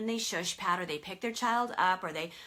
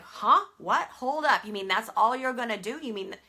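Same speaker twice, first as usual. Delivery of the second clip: put-on indignant baby; 5 dB louder than usual. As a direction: play the protesting infant in disbelief. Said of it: "they're like".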